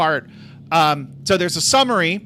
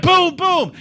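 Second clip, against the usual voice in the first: imitated thuds; 11 semitones higher, 4 dB louder than usual. Imitating blows behind the door.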